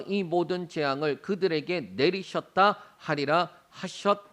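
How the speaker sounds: measured, steady Bible reading; formal congregational scripture recitation. Acted. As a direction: read the passage aloud evenly, phrase by phrase. Reads scripture aloud.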